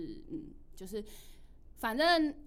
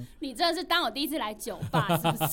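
sarcastic retort; 2 semitones higher, 7 dB louder, faster than usual. Retold or imitated. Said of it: "我就说".

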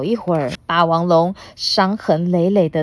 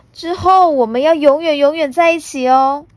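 high, loud, ending in a rise; happy child promise; 9 semitones higher, 6 dB louder than usual. Acted. Puna promising forever together, bright rising child voice. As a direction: make the promise gleefully.

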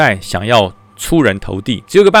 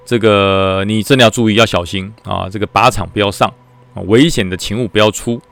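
ominous fortune teller. Retold or imitated. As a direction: drag out the doom like a mock oracle. Temple keeper's ominous prophecy.

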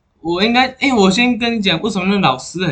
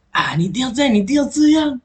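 climbing into a high pitch, insisting; teacher insisting the pupil obey, mock bossy; 9 semitones higher than usual. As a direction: parody a teacher demanding obedience. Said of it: "就是".

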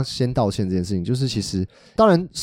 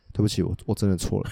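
soft, earnest apology; sincere apology; 5 semitones lower, 5 dB quieter than usual. Shown as a demonstration. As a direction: apologize softly and humbly. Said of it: "你要说".

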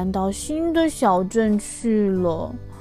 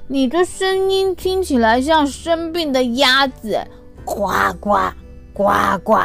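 mocking bully; 3 semitones higher than usual. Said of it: "雷诺说啊".

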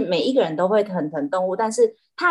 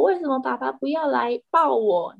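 milder pleading cat voice, a bit higher; a lighter whiny cat; 5 semitones higher than usual. Retold or imitated. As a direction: keep the cat's plea but ease off. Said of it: "它就说".

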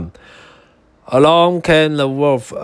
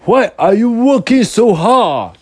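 high teasing pig voice; chuckling brother pig; 10 semitones higher, 3 dB louder than usual. Acted. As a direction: tease him with a laugh in your voice. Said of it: "saying with a chuckle".

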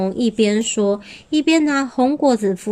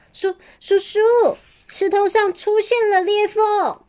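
little dinosaur voice; 11 semitones higher than usual. A narrator's reading.

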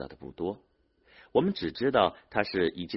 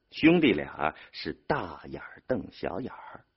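plain reading voice

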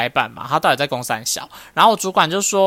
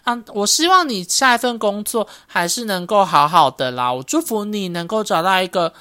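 official-speak. Retold or imitated. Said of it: "讲一些很官方的话".

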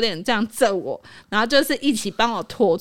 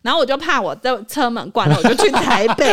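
laughing anxiety; 3 semitones higher, 7 dB louder than usual. Retold or imitated. Laughing retelling of fear.

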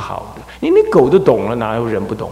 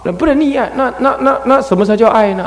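laughing; 11 semitones higher, 3 dB louder than usual. Real, not acted. Laughs while asking.

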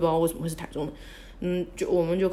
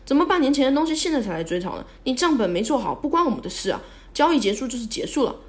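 higher, mildly indignant protest; indignant retort; 5 semitones higher than usual. Retold or imitated. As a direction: argue back, mock-outraged. Acted indignant argument against the claim.

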